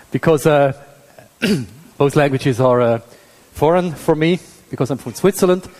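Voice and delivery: English with a Swiss German accent. Real, not acted. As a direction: Swiss speaker lecturing in English. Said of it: "You might hear that".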